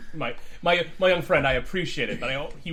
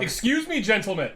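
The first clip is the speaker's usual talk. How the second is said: high-pitched polite voice; 7 semitones higher than usual. Acted. Player speaks in character to guards.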